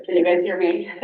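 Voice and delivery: projecting to the back of the room; teacher voice. Real, not acted. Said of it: "I'm gonna use my teacher voice".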